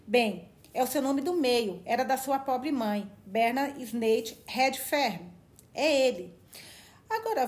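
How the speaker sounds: put-on a pompous old country doctor holding forth; old man voice. Old doctor speaking in story.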